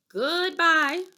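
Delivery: a wailing little farewell to the coins; hammed-up sad goodbye; dramatic goodbye. A narrator's reading.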